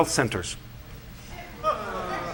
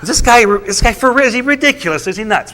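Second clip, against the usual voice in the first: higher, disbelieving inner voice; incredulous; 5 semitones higher than usual. Retold or imitated. Pastor reacting to the official, raised and incredulous. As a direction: act stunned disbelief at the speaker. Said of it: "I'm sitting there going".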